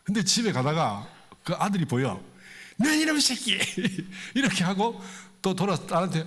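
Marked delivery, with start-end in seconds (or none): 2.8-3.6 put-on drunk father yelling. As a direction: blast it at the boy, half in jest. Drunk father yells at son.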